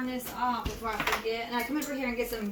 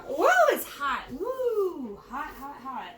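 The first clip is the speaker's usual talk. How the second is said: hot surprise; 2 semitones higher, slower than usual. Real, not acted. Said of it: "That kinda hit you in the face".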